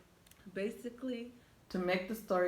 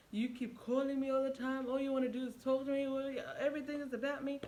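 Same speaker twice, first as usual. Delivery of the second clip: retold yelling; 5 semitones higher than usual. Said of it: "He started yelling".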